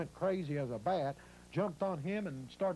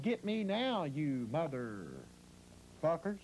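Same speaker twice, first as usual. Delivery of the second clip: retold holler; much slower than usual. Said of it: "Steve gave out a holler".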